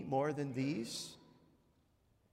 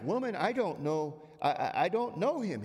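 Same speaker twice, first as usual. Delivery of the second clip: mild mock denial; 4 semitones higher, 3 dB louder than usual. Peter denying to servant girl.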